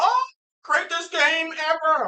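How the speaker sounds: high, slow, drawn-out mock excitement; mimicking amazed fans. Soccer fans discovering football, mimicked excitement. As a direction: gush like a converted fan.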